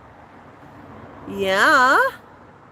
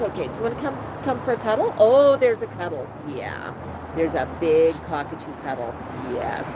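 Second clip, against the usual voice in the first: tender cuddle talk; 7 semitones lower than usual. Real, not acted. Owner to cockatoo during a cuddle, tender and lowered. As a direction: soothe a pet as it settles in.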